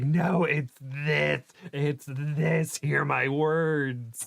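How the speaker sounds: mild mock yell from a chatter at the screen; mock insistent yell. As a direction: lay down the law, slowly, like a mock prophet. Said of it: "yelling at their computer".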